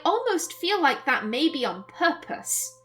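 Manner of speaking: measured, expressive reading of a story; story narration. A narrator's reading. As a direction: narrate the scene with care. Reads the game's narration aloud.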